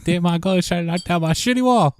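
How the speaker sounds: high cartoon kid voice; high bratty cartoon voice; Cartman impression. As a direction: whine it like a spoiled cartoon kid. Quoting South Park character.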